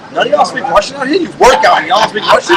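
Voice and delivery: mock disbelief at clueless colleagues; incredulous cop. Retold cop's incredulous outburst to colleagues.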